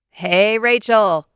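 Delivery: slow, smiling greeting; a grin you can hear down the phone. Acted. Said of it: "Daryl's smile is audible".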